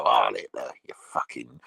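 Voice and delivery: sneering whisper, low and voiceless; schoolboy whispering an insult at the teacher; mock whispered insult. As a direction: hiss it behind the teacher's back. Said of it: "give 'em a Nazi salute and go".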